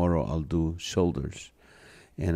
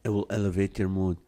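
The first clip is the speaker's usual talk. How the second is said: warm and persuasive; 6 dB quieter than usual. Real, not acted. Urging viewers to exercise.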